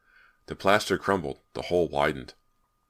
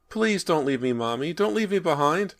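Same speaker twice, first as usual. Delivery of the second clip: put-on high, loud child's cry; a lost boy crying out from the dark; crying little boy; 13 semitones higher, 5 dB louder than usual. A narrator's reading. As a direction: call out for mommy, desperate and scared. Ghost boy pleading.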